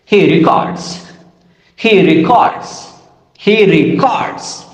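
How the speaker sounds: "records" as a verb, re-CORDS; stress on second syllable. Shown as a demonstration. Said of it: "let me identify stress".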